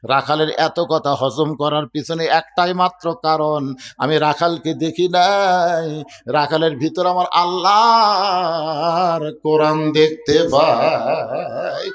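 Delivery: slow tearful wail, words stretched out; preacher's chanted imitation of crying; imitated weeping. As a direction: draw out the endings in a mock sob. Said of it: "কান্দে আর বলে".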